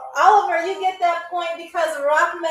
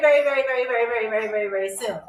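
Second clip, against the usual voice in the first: trailing tease; faster than usual. Acted. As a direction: let the promise fade off playfully. Drawn-out teasing promise to chat.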